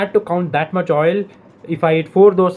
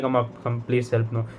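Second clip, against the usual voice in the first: pleading call; 5 semitones lower, 8 dB quieter than usual. Retold or imitated. Calling mom for help.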